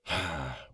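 soft sigh, mid-rant; weary sigh. Acted. Podcaster pausing before quoting Wikipedia, weary sigh. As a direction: breathe out softly, fed up.

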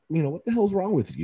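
high-pitched indignant question; acted-out dad telling-off; retold shocked scolding. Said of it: "I was almost shocked".

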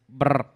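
lips rolled into a low brr; imitating the brr ad-lib; a rapper's brr ad-lib. Shown as a demonstration. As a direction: trill it like the rapper's trademark brr. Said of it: "es un tío que hace así".

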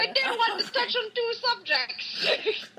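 very high, slow mock Minnesotan; hammed-up Midwestern accent, laughing; Minnesota accent. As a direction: stretch it out in a squeaky cartoon Minnesota accent. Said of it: "He's from Minnesota".

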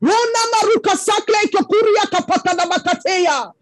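rhythmic flowing prayer in tongues; speaking in tongues. Acted. Preacher breaks into tongues before the congregation. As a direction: let the syllables roll out as fervent prayer.

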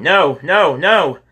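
high, loud cries of no; loud protest. A narrator's reading. Kyle refuses James's plan with loud high cries. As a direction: wail it as you roll away. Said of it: "Kyle rolled over ... saying".

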